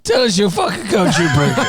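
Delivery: high cracking voice through a laugh; hoarse voice breaking upward. Real, not acted. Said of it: "So you're hitting puberty".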